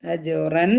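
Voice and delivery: അജുറൻ with a plainly sounded final n; clear n sound. Shown as a demonstration. Teacher demonstrates the clear noon, അജുറൻ with distinct final 'n'. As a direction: end അജുറൻ on a clean 'n'. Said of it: "നൂനിന്റെ സൗണ്ടിനെ വെളിവാക്കുക".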